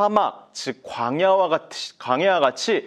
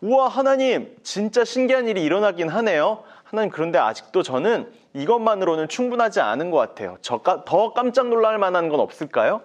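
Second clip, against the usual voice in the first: put-on higher, eager young Moses voice; Moses amazed; 4 semitones higher than usual. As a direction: marvel at the miracle, pitched up. (놀라며 들뜬 모세 목소리)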